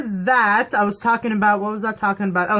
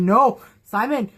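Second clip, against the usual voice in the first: higher, pleading with the screen; mock pleading; 6 semitones higher than usual. Fan begging Simon to hide his fangs. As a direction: beg Simon to stop. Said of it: "I'm like".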